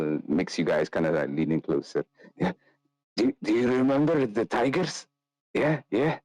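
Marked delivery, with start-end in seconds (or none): 2.4-6.2 hushed, rambling confession; sly storyteller rogue. Acted. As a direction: lean in and spill the heist. Nikolai tells tale.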